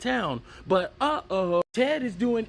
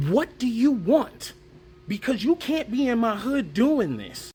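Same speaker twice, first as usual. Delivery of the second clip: mock confrontation; 5 semitones higher, 3 dB louder than usual. Ronald confronting BK again.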